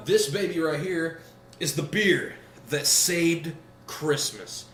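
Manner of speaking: slow dramatic pitch; trailer voice. Acted. Movie trailer style pitch.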